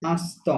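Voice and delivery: French-style "আস্ত" opening on an open ah. Shown as a demonstration. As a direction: model "আস্ত" with a nasal-style A for IN. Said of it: "আইনকে আ বলি". ("আস্ত"-এ আইন-কে আ বলে উচ্চারণ)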